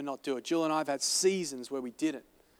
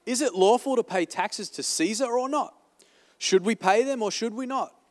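voicing the Pharisees; 3 semitones higher, 4 dB louder than usual. Pastor voices the flattering Pharisees.

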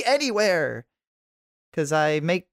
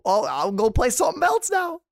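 breezy; 6 semitones higher, 4 dB louder than usual. Retold or imitated. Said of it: "they're like".

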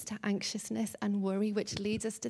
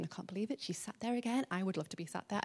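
muttering; 2 semitones lower, 9 dB quieter, much faster than usual. Acted. Martha muttering to herself in kitchen.

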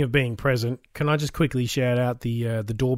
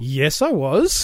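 smug; much slower than usual. Retold or imitated. Acting his own smug reply.

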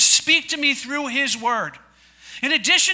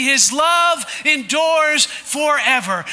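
congregation shout-along; 2 semitones higher, slower than usual. Real, not acted. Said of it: "Can you say that with me?".

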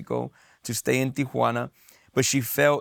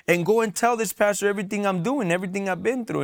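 higher, fast, mildly heated complaint; retold angry outburst; 7 semitones higher, faster than usual. Son confronting his mom after church, fast mock anger. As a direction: rattle it off higher, an upset son accusing. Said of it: "Like, I was mad".

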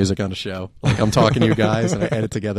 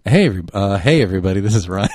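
late night radio voice; 4 dB louder than usual. Shown as a demonstration. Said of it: "my late night radio voice".

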